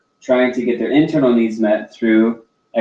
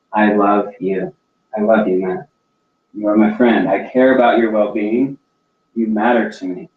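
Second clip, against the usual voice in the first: deep sincerity; 3 semitones lower than usual. Shown as a demonstration. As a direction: say it from the heart, unhurried. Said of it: "I wanna say it with deep sincerity of my heart".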